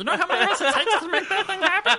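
high, loud gnome voice.

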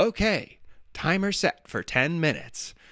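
small, high robotic assistant voice. Quoting the phone assistant answering your timer request: Siri robot voice. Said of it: "her little robot voice".

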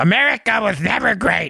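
creaky, raspy, rough, dumb-sounding voice. On your show, quote a governor you can't stand, in a stupid mocking Andrew Cuomo voice. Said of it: "in that stupid voice".

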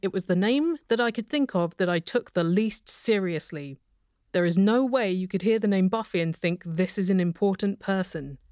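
ordinary talk

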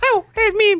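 very high-pitched calling-out voice. Trading cartoon impressions with others, Mickey Mouse voice. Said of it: "It's Mickey Mouse".

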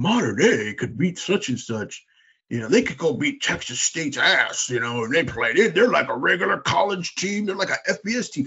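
put-on Southern accent. Imitating people who claim a high school team could beat college teams: Southern accent. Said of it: "Is that a Southern accent you're doing?".

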